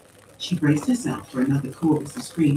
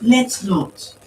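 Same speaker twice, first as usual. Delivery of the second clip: "Let's not" higher and louder, each word set apart; precise emphasis; 5 semitones higher, 7 dB louder than usual. A narrator's reading. Refusing the other person, very precise emphasis. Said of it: "with very precise emphasis".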